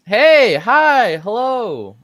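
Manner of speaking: high, loud, flustered hello; nervous high greeting. Acted. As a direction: blurt out a jittery hello.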